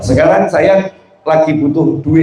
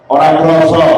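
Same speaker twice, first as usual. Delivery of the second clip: complaining husband; 3 dB louder than usual. Acted. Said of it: "yang satu kalimatnya keluh kesah".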